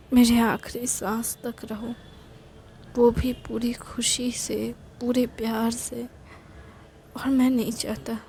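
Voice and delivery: soft, half-whispered tearful plea; tearful pleading. Acted. Boyfriend begging his love to stay, softly tearful. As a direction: hold back tears as you beg her to stay. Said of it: "अरे, तुम तो रो रहे हो।".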